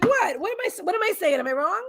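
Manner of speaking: high, innocent mock dog voice; voicing the dog. Voicing her dog's look back at her, high and innocent. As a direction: pitch way up, playing the dog's innocent protest. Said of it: "She's looking at me like".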